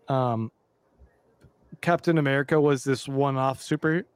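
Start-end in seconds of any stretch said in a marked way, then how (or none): 1.8-4.0 talking through a burp; words pushed out round a burp. Real, not acted. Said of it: "sorry, I'm burping a lot".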